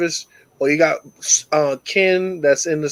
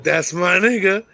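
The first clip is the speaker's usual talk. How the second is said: proud dad. Retold or imitated. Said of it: "so I was like".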